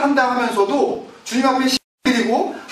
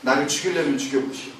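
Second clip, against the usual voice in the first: defiant Jonah; 4 semitones lower than usual. Acted. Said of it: "뭐라 그래요, 요나가?".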